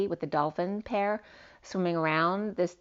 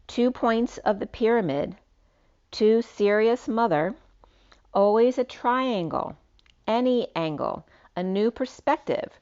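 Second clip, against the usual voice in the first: slightly lifted, declamatory read; poetic reading; 5 semitones higher, 5 dB louder than usual. Acted. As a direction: read it out like a cryptic verse. Reads out written poetic message.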